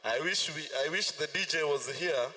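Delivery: ordinary talk, nothing marked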